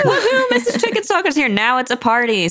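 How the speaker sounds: high-pitched party whoop with laughter; delighted whooping. Acted. Trotty celebrating as the guest joins in, delighted whooping.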